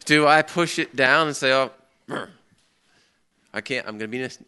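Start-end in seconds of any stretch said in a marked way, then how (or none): 1.5-4.4 fake pious reply. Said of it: "picture perfect Christian answer".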